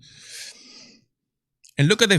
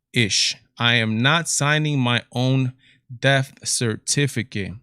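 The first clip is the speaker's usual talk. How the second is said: reading the tweet out; 3 semitones lower, slower than usual. Retold or imitated. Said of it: "look at this".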